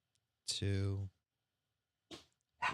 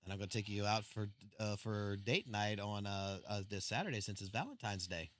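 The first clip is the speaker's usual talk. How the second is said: sweet-talking; 10 semitones lower, 17 dB quieter than usual. Real, not acted. Sweet-talking wife after her scolding.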